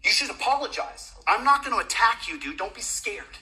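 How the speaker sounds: angry citizen demanding an apology. Real, not acted. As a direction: demand it, furious but holding back. Confronting officer, demanding apology.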